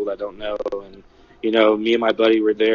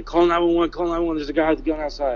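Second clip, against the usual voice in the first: urgent raised call, rushing the second line; retold scream for help; 5 semitones higher, faster than usual. Witness retelling how he yelled to staff inside, urgent mock shout. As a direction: shout for someone to call 911. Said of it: "I started screaming".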